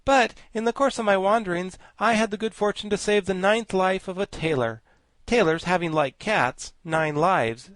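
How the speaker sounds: high, loud, grandly learned insect; high pompous bug voice; pompous Woggle-Bug. Acted. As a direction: lecture like a vain scholar bug. Woggle-Bug tells tailor story.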